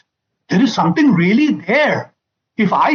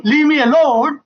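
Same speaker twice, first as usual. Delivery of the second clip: imitating wife; 6 semitones higher than usual. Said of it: "Because she's saying".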